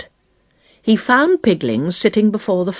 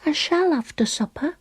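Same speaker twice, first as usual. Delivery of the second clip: decided; 10 semitones higher, 5 dB quieter than usual. Acted. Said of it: "said Pigwig decidedly".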